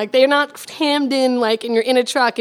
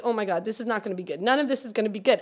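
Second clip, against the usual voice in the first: hushed, fast, soft muttered worry; softly fretting as the wide truck looms; quiet dread; 3 semitones lower, 6 dB quieter, faster than usual. Retold or imitated. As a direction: murmur it under your breath, fast. Dread watching wide truck approach.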